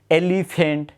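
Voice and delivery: "এলিফ্যান্ট" slowly broken into its syllables. Shown as a demonstration. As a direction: draw out "এলিফ্যান্ট" part by part. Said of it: "এখানে কিন্তু দুটা syllable".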